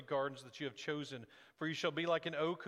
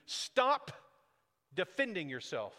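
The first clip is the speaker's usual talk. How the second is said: sharp command. Acted. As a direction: bark it out. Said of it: "judge commanding".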